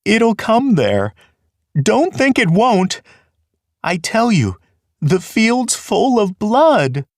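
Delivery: high, slow, fearful voice; dread-filled warning pitched high and slow; a terrified rabbit pleading with his brother; frightened insistence. Acted. Fiver insists on his terror.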